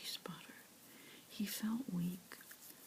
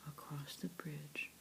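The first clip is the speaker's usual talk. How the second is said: ordinary delivery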